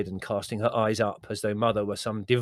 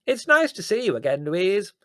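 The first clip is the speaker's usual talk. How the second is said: hard-of-hearing Aunt Fan; 12 semitones higher, 8 dB louder than usual. A narrator's reading. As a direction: pipe up loudly, half deaf.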